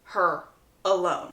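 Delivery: slow, low, spaced-out warning; soft, deliberate forbidding; firm command. Retold or imitated. Brother forbidding his sister, slow low warning. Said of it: "Gregory tells her".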